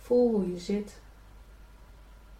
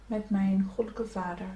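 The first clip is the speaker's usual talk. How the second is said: prayer; 3 dB quieter than usual. Acted. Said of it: "je kan in jezelf bij nazeggen".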